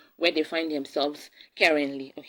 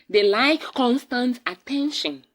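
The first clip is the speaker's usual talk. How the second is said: slow, with "constant" pitched up high; stress on constant; 6 semitones higher, 3 dB louder than usual. Real, not acted. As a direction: lean hard on the word "constant". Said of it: "The emphasis is on the constant".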